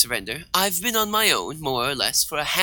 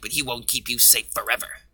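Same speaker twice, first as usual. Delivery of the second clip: usual speaking voice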